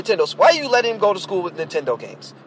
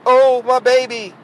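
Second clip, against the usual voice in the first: higher, drawn-out mock wail; mock whining; 4 semitones higher, 4 dB louder, slower than usual. Mom pleading for her kid in trouble, mock whining. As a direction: imitate a whining mother, slowed down. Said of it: "the mom is whining like".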